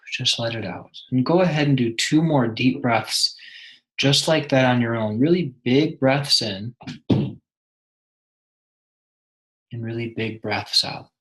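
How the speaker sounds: measured meditation guide, long pauses between phrases; guided meditation. Acted. Meditation guide helping a listener connect with someone, guided meditation. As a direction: lead them inward, leaving room after each instruction.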